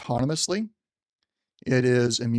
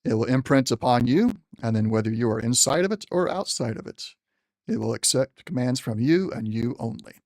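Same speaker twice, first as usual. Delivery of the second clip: general's voice. Acted. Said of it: "trying to use the general's voice".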